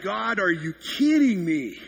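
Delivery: put-on tired father crying out when the baby sleeps for someone else; exasperated outburst. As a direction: throw up your hands in disbelief. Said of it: "I'm like".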